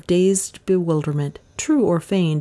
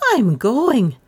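high, emphatic announcement; announcing; 6 semitones higher, 3 dB louder than usual. A narrator's reading. Lizzie rises to flee the room, announcing. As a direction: announce it firmly, pitched up. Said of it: "she announced".

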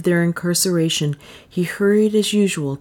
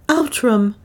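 higher, alarmed gasp of a name; 6 semitones higher than usual. A narrator's reading. Francisco brings Leonard bad news, gasping. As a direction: call out as if short of breath. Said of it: "he gasped".

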